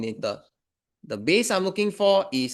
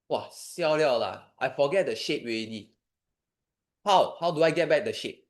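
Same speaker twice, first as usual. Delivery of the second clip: panicking student. Retold or imitated. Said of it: "I know your first instinct will be".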